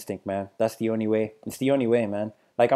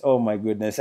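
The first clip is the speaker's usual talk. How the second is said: "oh my goodness" said softer and lower, trailing off; hushed oh my goodness; 4 semitones lower, 6 dB quieter than usual. Real, not acted. Still stunned by the trailer, a soft falling "oh my goodness". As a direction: let it fall away into a hush. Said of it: "I'm just so hyped".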